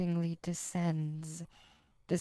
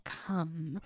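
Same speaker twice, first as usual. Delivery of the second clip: pleasurable; 3 dB quieter than usual. Shown as a demonstration. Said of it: "said pleasurably".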